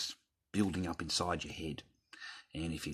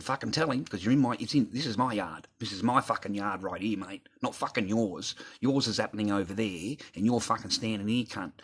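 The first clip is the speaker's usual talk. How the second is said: higher, louder indignant protest; retold territorial anger; 3 semitones higher, 4 dB louder than usual. Retelling telling a man whose yard it is, indignant. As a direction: stake your claim, worked up in the retelling.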